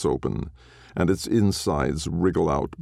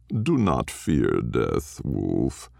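slow reassuring dog; 4 semitones lower, much slower than usual. Acted. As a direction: soothe the frightened wolf. Dog soothes the wolf.

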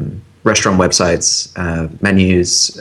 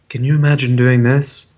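soft-spoken ad voice; 4 semitones higher than usual. Retold or imitated. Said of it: "soft-spoken, Apple-y sort of ad".

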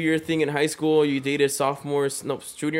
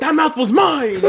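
laughing; 10 semitones higher, 3 dB louder, slower than usual. Retold or imitated. Acted jealous boyfriend.

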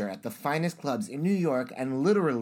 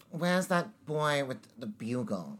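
severe, restrained British dame; Maggie Smith; 4 dB quieter than usual. Shown as a demonstration. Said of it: "Maggie Smith would be like".

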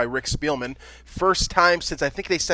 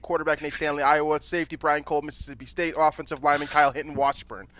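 all in one breath. Real, not acted. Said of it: "I'm gonna try to do this in one breath".

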